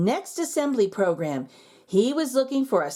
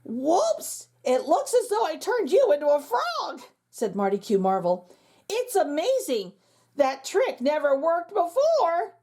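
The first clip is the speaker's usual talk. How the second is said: higher, amazed and pleased; delighted magician; 5 semitones higher than usual. Acted. Magician marvels at turning principal into frog, delighted. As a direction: marvel at your own accident.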